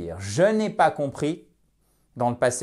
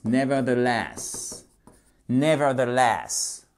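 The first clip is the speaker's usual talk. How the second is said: 'nevertheless' slowly but joined up; measured, careful 'nevertheless'; slow teaching model; 3 semitones lower, slower than usual. Shown as a demonstration. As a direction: repeat 'nevertheless' evenly for learners. Teacher repeats word slowly for learners.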